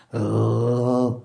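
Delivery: low, queasy groan; mock retch. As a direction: groan as if about to throw up. Mitchell about to throw up.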